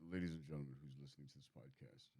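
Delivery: host voice. Acted. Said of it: "I have to rein this in for a second".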